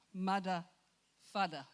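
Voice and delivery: "mada," "fada." said with a d, no th sound. Retold or imitated. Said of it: "There's no T H in the Samoan language".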